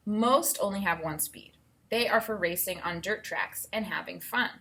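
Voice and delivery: clear, even read-aloud voice; reading to children. Acted. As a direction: read the book to the class. Teacher reads book aloud.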